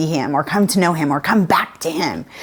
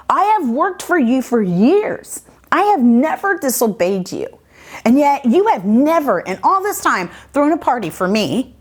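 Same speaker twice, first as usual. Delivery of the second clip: mildly indignant, higher-pitched protest; unhappy older son; 5 semitones higher than usual. Retold or imitated. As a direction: act out an aggrieved son, pitched up. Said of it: "he is not excited. He is not happy".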